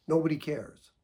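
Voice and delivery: short calm echo of key words; just hand the words back calmly. Shown as a demonstration. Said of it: "Or you just say".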